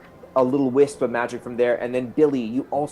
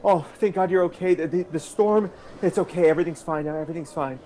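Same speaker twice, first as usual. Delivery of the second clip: higher-pitched, relieved reassurance; acted tender relief, pitched up; anxious reassurance; 5 semitones higher, faster than usual. Acted reunion, reassuring crying lover.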